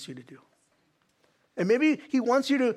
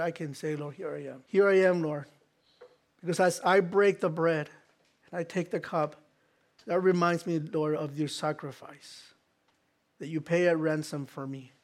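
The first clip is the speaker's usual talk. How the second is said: heartfelt prayer; 3 semitones lower than usual. Acted. Leads communion prayer.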